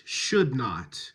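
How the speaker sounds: "should" emphasised, "not" falling away; stress on SHOULD. Shown as a demonstration. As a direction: lean on "should", let "not" fall. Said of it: "stress is always on the non-negative".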